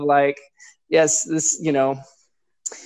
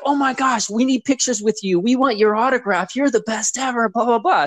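higher-pitched mock fan excitement; imitated freaking out; 7 semitones higher than usual. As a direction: play her parents gushing over a celebrity. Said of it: "So they start freaking out".

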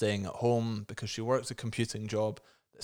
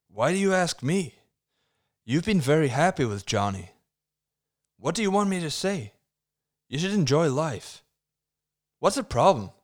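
loud, high, hammed-up American accent; 6 semitones higher, 7 dB louder than usual. Mark advising Lisa on the phone, hammy American accent. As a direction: overact each line in mock American, swooping high. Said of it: "I went for an American accent".

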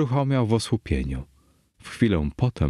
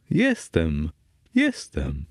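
plain reading voice

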